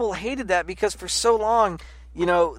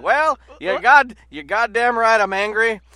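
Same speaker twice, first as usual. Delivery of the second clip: radio host rant; 3 semitones higher, 5 dB louder than usual. Pretend. Ranting at Trump fans on a pretend radio show, mock host voice. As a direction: lecture them from your own radio show. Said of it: "listen to my own radio chat where I'm like".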